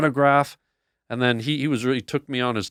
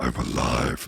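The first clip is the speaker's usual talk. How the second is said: put-on demon baby voice, much lower and quieter; 13 semitones lower, 5 dB quieter than usual. Quoting the devil baby's only line from an old movie, in a demon voice. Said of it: "it goes".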